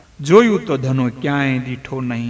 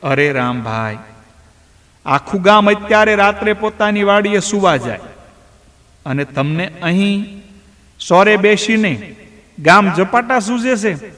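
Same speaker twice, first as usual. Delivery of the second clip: a lightly voiced villager, raised and scolding; chiding villager; 4 semitones higher than usual. Villager scolds Rambhai for sitting at home, lightly raised voice. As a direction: needle him about leaving the farm unguarded.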